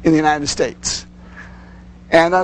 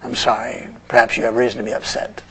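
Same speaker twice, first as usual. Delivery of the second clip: understanding; 6 semitones lower, 4 dB quieter, faster than usual. Shown as a demonstration. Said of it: "if you respond proactively".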